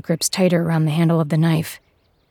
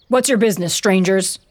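shouting; 2 semitones higher, 4 dB louder than usual. Acted. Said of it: "the man shouts".

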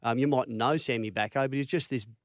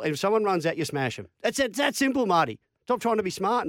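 harsh coach's dressing-down, building higher and more insistent; Wayne Bennett; 4 semitones higher than usual. Retold or imitated. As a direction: imitate a coach berating a player, hammering each order. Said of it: "'cause he's pretty harsh".

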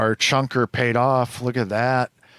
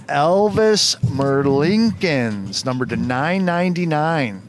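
excited; 5 semitones higher, 4 dB louder than usual. Real, not acted. Excited card reveal.

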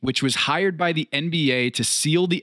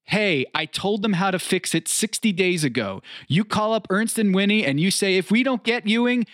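smirking; 5 semitones higher than usual. Retold or imitated. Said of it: "smirked and said".

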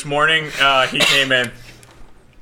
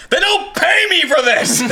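much higher, slow, laughing whine; mock indignant cry; 14 semitones higher, slower than usual. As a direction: squeal it like an exasperated cleaner.

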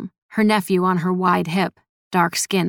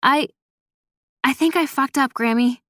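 higher, hesitant, mildly strained confession; strained breath; 6 semitones higher than usual. A narrator's reading. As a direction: confess haltingly with a touch of strain. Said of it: "she said through a strained breath".

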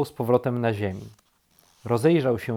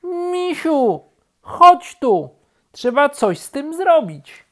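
high, loud summons; urgent calling; 10 dB louder, slower than usual. A narrator's reading. Rabbit wants bear's help, calling urgently. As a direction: call out insistently. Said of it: "zawołał królik".

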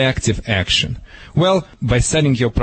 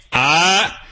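sharp "Ah!"; 4 semitones higher than usual. Shown as a demonstration.

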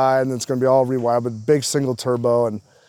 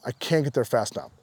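dropped to a quiet, softer echo; a softer, inward second take; softer repeat; 7 dB quieter than usual. Retold or imitated. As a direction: repeat it under the breath, softer. Repeated eager line.

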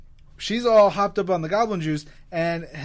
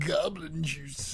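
goblin juice voice; 5 dB quieter, slower than usual. Pretend. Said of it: "Can't believe you didn't say goblin juice".

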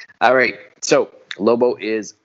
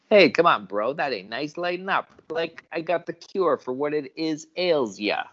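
pushy pitched-up hustler; wheedling, higher voice; high salesman voice; 8 semitones higher than usual. Acted. Acted pushy guy, high voice.

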